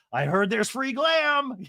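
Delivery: high and slow, drawn-out greedy glee; a hint of a breakout convict craving glam; mock Jen Shah. Jen Shah escaping, voiced.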